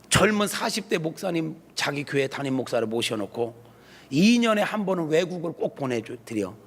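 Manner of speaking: normal talking voice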